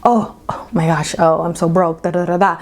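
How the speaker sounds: mock whining, half-whispered and breathy; whiny broke complaint. Imitating a person stuck in a lack mindset, whiny. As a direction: imitate someone moaning about being broke. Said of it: "coming from a lack mindset".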